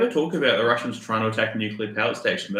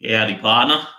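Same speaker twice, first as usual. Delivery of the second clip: put-on Southern accent; 4 dB louder than usual. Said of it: "can you do a southern accent".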